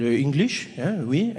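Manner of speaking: put-on hesitant French-accented English; older French gentleman. Older French attendant asked about language, French accent. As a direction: answer in a halting French accent. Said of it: "There's an older French gentleman".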